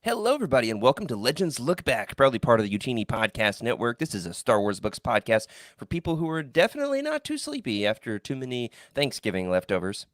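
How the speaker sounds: upbeat show opener; podcast host intro. Acted. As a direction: welcome listeners like a host.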